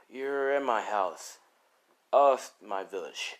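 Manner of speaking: slow, drawn-out acted man's voice; unhurried stranger. Man to the boy who just woke, unhurried. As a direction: answer slowly after a sigh.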